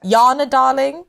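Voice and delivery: put-on Afrikaans accent; a confident go at South African. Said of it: "do an Afrikaans".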